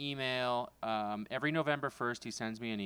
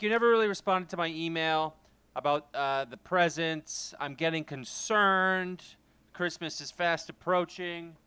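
mock worried brother; 4 semitones higher, 4 dB louder than usual. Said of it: "but that's the tone".

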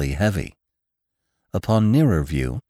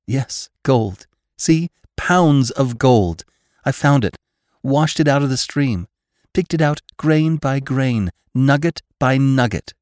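higher, emphatic, triumphant telling; excited reveal; 7 semitones higher, 3 dB louder than usual. A narrator's reading. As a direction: show off the treasure piece by piece. Bess proudly reveals her gold find.

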